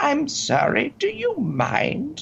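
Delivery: put-on sweet, very slow, high-pitched little old lady voice. Retelling what an old lady on a bus said: imitating a sweet little old lady. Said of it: "very sweet little old lady".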